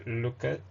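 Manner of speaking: Luca said the English way; English-style "Luca", not French; English pronunciation. Shown as a demonstration. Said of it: "in English, uh, we pronounce it like".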